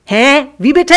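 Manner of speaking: high, loud startled "Hä?"; loud call. A narrator's reading. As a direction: shout in surprise. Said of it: "Klacks rief".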